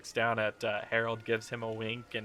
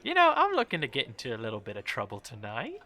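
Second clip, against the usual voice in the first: flirty lady; 2 semitones higher, 5 dB louder than usual. Acted.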